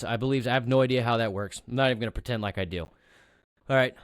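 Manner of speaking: running out of breath, real; speaking breathlessly after a long stretch. Real, not acted. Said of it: "I'm running out of breath".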